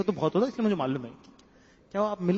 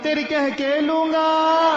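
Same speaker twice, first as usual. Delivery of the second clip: much higher, slow, loud movie threat; filmy gangster threat; 9 semitones higher, 5 dB louder, much slower than usual. Acted. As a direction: drag out the famous threat. Film dialogue as ringtone. (फ़िल्मी धमकी, बहुत ऊँची और धीमी)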